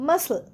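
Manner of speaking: মাসল as "massl", no K sound; silent C. Shown as a demonstration. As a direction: teach মাসল with the C dropped. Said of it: "সি উচ্চারণ হচ্ছে না".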